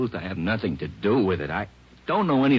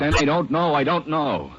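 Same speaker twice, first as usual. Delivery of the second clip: much higher, louder frantic denial; desperate outburst; 9 semitones higher, 7 dB louder than usual. Acted. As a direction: break under the pressure. Suspect cracks under pressure.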